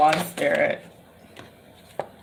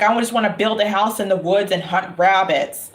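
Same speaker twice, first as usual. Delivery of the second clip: imitating a deadpan little boy; understated, matter-of-fact delivery; dead serious. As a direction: say it completely straight, no joke. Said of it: "he said it dead serious".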